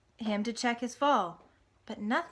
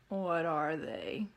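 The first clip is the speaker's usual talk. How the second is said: slow, downcast pig; sad; 3 semitones lower, much slower than usual. Acted. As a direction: ask dejectedly. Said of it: "asked Wilbur sadly".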